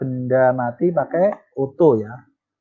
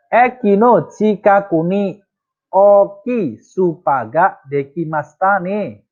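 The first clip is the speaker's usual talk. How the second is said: higher, careful Japanese sentence; model reading; 5 semitones higher than usual. Shown as a demonstration. Teacher reads the example sentence clearly for students. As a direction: present the example clearly and brightly.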